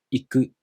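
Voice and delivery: "iku" said in the flat heiban pattern; flat pitch accent. Shown as a demonstration. Teacher shows learners a flat-type verb, "iku" in heiban pitch accent. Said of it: "This verb is the heiban type".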